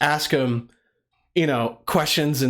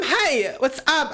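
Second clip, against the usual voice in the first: put-on high, bubbly white girl greeting; really white girl; 9 semitones higher, slower than usual. Shown as a demonstration. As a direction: chirp it up like a peppy girl. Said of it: "You can be, like, a really white girl".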